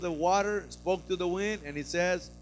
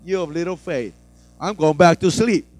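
calm; 3 semitones lower, 7 dB louder than usual. Retold or imitated. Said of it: "real calm".

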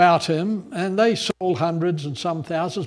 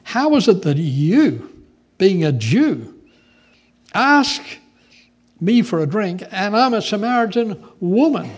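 indignant Samaritan woman; 3 dB louder than usual. Acted. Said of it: "said to him".

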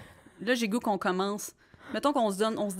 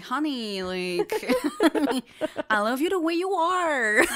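high, loud, laughing through it; 7 semitones higher, 4 dB louder, slower than usual. Retold or imitated. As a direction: giggle through the line. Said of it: "I was like".

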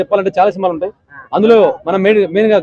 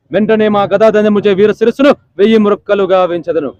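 Jr NTR Ravana dialogue. Retold or imitated. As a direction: boast like a demon king, mildly. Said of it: "junior NTR అంటే అన్నగారి కోసం".

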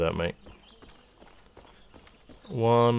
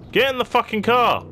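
frustrated shout; whisper yelling; 11 semitones higher, 4 dB louder than usual. Real, not acted. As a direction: yell at her to get in. Frustrated at companion ignoring him.

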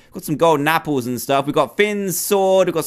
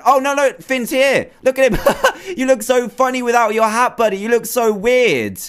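laughing; 8 semitones higher than usual. Real, not acted. Laughing at Finn without hat.

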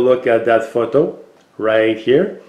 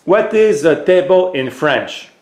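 clear, higher question to the robot; voice command; 6 semitones higher than usual. Real, not acted. Owner asks his robot a question, clearly raised. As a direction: spell it out for a machine.

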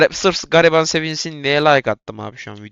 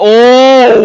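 surprised; 10 semitones higher, 11 dB louder than usual. Real, not acted. Sudden surprise during the race.

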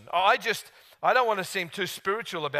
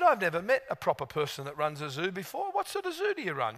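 barely contained excitement; 3 dB quieter than usual. Retold or imitated. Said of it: "Just trying to be not too excited".

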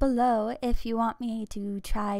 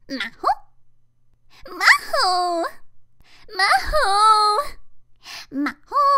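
put-on high cute anime girl; 6 semitones higher, slower than usual. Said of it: "that was all my voice acting".

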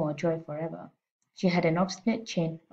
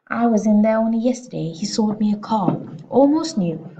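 bark; 4 semitones higher, 7 dB louder than usual. Acted. Trunchbull bragging, barking.

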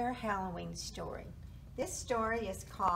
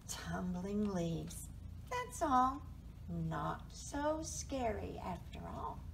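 slow, settling storybook reveal; reassuring picture-book reading; story narration; 2 semitones lower, slower than usual. A narrator's reading. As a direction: reveal it gently to young listeners.

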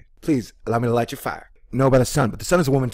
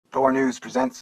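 high hammy announcer intro; 11 semitones higher than usual. Acted. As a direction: announce it like a cheesy show. Mock news show intro.

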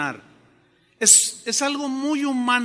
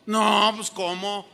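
flustered Ananías; 6 semitones higher than usual. Retold or imitated. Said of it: "como seguramente tú y yo reaccionaríamos".

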